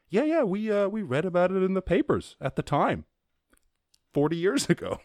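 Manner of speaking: high mock-weary parent voice. Parents tell teen about old news, high and mock weary. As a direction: sigh it out like a bored dad.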